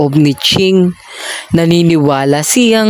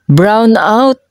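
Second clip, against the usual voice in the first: sudden, higher exclaim; excited exclaim; 6 semitones higher than usual. A narrator's reading. Narrator blurting out the sudden blackout, excited. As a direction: blurt it out in surprise.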